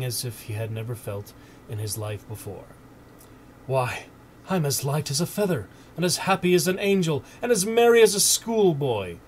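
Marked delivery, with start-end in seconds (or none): 3.7-9.2 rising from plain to high, loud delight; building joy. A narrator's reading. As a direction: swell with giddy happiness. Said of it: "he said to himself".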